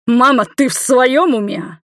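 high, loud, slow question; aghast, drawn-out exclamation; incredulous outburst. A narrator's reading. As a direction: challenge mother in disbelief. Incredulous reply to the blessing.

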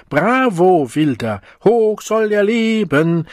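high, loud jeering bravo; mocking cheer. Tourists mockingly cheer the Savage, high and loud. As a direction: cheer him on like a circus act. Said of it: "Das Publikum schrie vor Lachen".

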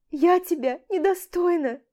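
высокий надрывный плач; выплакать самоуничижение; рыдая. A narrator's reading. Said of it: "рыдает она". (Аля рыдает у Олега на руках)

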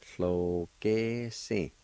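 very slow, drawn-out syllables. Shown as a demonstration. Teacher showing learners the word for field, slowly syllable by syllable. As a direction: hold each syllable of the word. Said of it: "it's pronounced like this".

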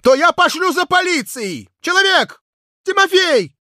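high, loud furious shout; choking with rage. Acted. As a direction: yell it, spluttering with anger. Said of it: "крикнул я, захлёбываясь от злости".

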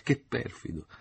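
falsetto acuto, finta offesa. A narrator's reading. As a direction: rimprovero civettuolo in falsetto. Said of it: "ella ripeté in falsetto". (finto rimprovero in falsetto acuto)

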